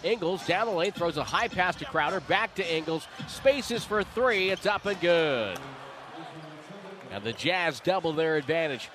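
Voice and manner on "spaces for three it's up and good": drawn out, rising three-point call; excited call. Real, not acted. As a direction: build the shot, then land it.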